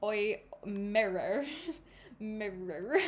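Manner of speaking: slow, giggly go at an Irish accent; failed Irish attempt. Shown as a demonstration. Reader practicing one word, slow giggly Irish attempt. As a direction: stretch it out in clumsy Irish. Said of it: "how to do an Irish accent".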